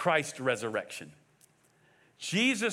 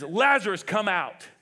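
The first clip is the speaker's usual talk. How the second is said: brief commanding call, louder on the name; moderately raised voice of command; crying out loudly; 4 dB louder than usual. Acted. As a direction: call the name out, then give the order. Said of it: "he cried out in a loud voice".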